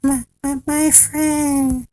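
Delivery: high, small creature voice; faint tiny voice. A narrator's reading. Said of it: "The voice was so faint".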